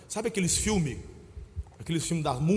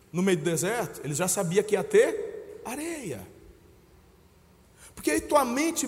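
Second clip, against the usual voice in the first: usual speaking voice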